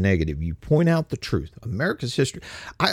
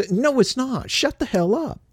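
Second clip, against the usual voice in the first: angry retort; 12 semitones higher than usual. Real, not acted. Angry retort to virtue signalers.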